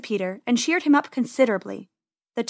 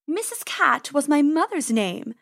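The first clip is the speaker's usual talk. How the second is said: snooty bored cat; 5 semitones higher than usual. Acted. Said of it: "the cat said".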